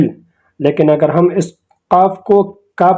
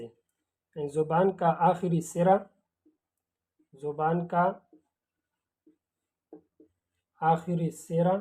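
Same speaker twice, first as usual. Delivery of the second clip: زبان کا آخری سرا said slowly with pauses; pausing for emphasis; 15 dB quieter, slower than usual. Shown as a demonstration. Teacher stressing زبان کا آخری سرا for students. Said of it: "stressing the tongue tip phrase".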